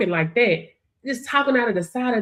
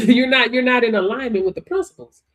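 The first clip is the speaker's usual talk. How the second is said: usual speaking voice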